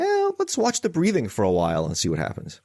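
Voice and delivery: offhand, mildly mocking imitation; mock-casual suggestion. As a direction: lightly mimic a nonchalant therapist. Mimicking psychologist's casual suggestion.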